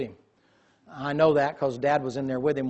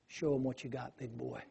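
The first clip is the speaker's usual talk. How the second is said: calm encouragement; 11 dB quieter than usual. Retold or imitated. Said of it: "and he said".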